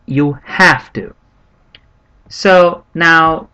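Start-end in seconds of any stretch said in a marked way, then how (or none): 0.1-1.1 "have" leaned on in a slowed phrase; slow down and press on the word "have"; stress on HAVE. Shown as a demonstration. Teacher pointing students to the key word, stress on "have". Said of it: "emphasis on the word".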